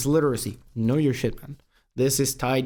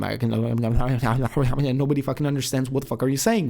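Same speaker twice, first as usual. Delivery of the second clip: rushed, run-together demo of fast talk; speed-talk, words tumbling together; talking really fast. Shown as a demonstration. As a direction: rattle it off too fast to follow. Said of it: "I can start talking really fast".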